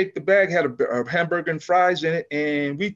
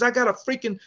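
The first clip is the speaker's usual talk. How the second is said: higher, half-mock exasperated chief; losing it; 6 semitones higher, 3 dB quieter than usual. Chief complaining about the helicopter, mock exasperated. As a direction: start of a retold blow-up. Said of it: "He was losing it".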